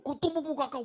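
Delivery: loud, high mock shout; haunting angry threat. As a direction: replay the threat like it echoes in your head. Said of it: "Wajah itu muncul".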